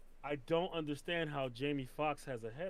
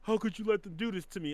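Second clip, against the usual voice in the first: hurt villain plea; 7 dB louder than usual. Retold or imitated. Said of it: "being like".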